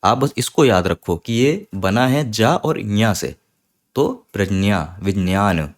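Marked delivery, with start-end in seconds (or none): 4.3-5.7 प्रज्ञा and विज्ञान both said with a j then ny; प्रज्ञा, विज्ञान with a little j and a strong ny; Sanskrit pradnya, vidnyan. Shown as a demonstration. Teacher sums up the Sanskrit sounds. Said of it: "इस तरीके से बोला जाता है".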